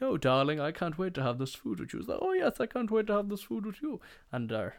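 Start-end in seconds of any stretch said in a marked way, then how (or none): 0.0-2.0 slightly high, gushing society diner; polished Range Rover type gushing to their date; affected well-heeled diner. Acted. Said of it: "come out in their polished Range Rovers". 2.2-4.0 very high, put-on posh falsetto; hammed-up high-pitched posh diner; affected well-heeled companion. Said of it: "polished Range Rovers and they're like".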